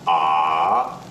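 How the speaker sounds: "ah" shaped like a check mark, down then up; falling-rising "ah"; third tone. Shown as a demonstration. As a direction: dip "ah" low and raise it. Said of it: "making a check mark with your voice".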